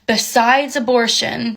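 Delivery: slow, imitated aggressive "Besides abortion"; aggressive, mock. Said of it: "saying very aggressively".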